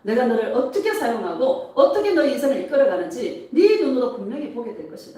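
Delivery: lively prophetic declaration to the congregation; 예수님 음성. Retold or imitated. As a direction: proclaim promises firmly, phrase by phrase. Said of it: "예수님의 음성이 들리는 거예요". (축복을 선포하듯 힘 있게)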